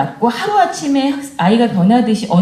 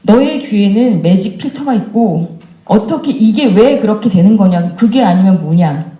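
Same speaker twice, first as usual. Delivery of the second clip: mild mock scolding. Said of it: "화를 내는 거죠".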